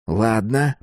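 gritted teeth, words pushed out; gritted teeth and tight-lipped; through gritted teeth. Acted. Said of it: "процедил он сквозь зубы".

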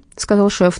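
ordinary delivery, nothing marked

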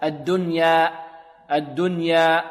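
الدنيا ending on an open, held alef; stop without hamza. Shown as a demonstration. Teacher demonstrates the stop on الدنيا, long open ending. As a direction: let the final aa of الدنيا ring evenly. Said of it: "لا نقف على همزة".

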